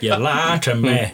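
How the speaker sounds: slow, drawn-out put-on accusation; mock accusation. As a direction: stretch out the accusation for comic effect. Same acted line, drawn out.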